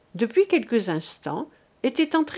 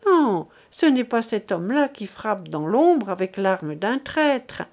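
fierce maternal conviction; a lightly voiced passionate mother; impassioned mother. Mother defends son passionately.

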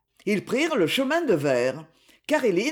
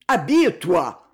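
repeated order; 5 dB louder than usual. Acted. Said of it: "répéta-t-il".

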